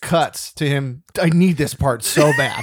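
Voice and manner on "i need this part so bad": desperate mock shout. Nick desperate for the part.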